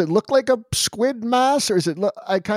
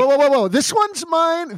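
protective outburst; 8 semitones higher than usual. Acted. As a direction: stop him, this jacket is mine. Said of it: "he's like".

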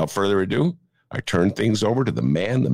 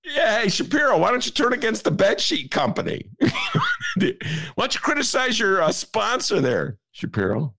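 teasing challenge; 12 semitones higher than usual. Real, not acted. Host mocking Shapiro playfully.

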